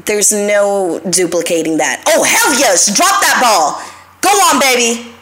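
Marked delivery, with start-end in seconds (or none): 2.1-5.1 excited cheer at the TV; cheering the game. Real, not acted. Watching the Dodger game, real excited cheer. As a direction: egg the ball on, excited.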